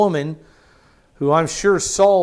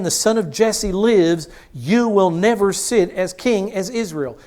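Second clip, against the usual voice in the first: enraged king; 4 semitones higher than usual. Acted. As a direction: shout it like a raging father king. Saul rages at son Jonathan.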